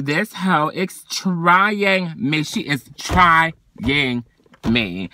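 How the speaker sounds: slow, dragged-out complaint; exasperated drag. Real, not acted. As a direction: stretch out "trying" in disbelief. Exasperated about coworker.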